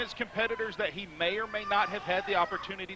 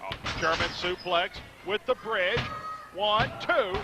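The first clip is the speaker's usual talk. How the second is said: excited; 2 semitones lower, 4 dB louder, slower than usual. Real, not acted. Live call of a near fall.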